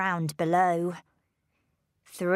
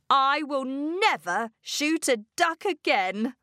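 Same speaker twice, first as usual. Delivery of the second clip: higher-pitched pleading vow; earnest promise; 6 semitones higher than usual. A narrator's reading. Father promising for his life.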